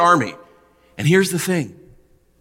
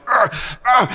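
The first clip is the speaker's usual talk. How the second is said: straining grunts; 9 semitones higher than usual. Retold or imitated. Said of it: "and I'm frustrated".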